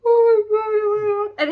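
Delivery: gasp, then high loud oh my God; thrilled shriek that settles; gasping squeal. Real, not acted. Fan gasping over romance.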